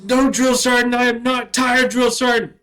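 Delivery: loud, high barked answer to the sergeant; shouted recruit reply. Retold or imitated. Recruit shouting back at his drill sergeant. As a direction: yell it out at attention.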